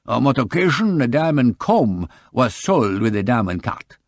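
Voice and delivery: put-on polite shopkeeper with a light French accent; lightly voiced French jeweller, courteous. Jeweller Briquet answering the detective, light French accent.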